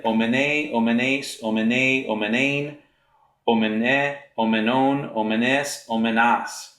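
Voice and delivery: omene, omenes, each form set apart with a small rise; reciting Greek endings. Shown as a demonstration. Teacher walking students through the feminine forms, steady and clear. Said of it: "Then for the feminine".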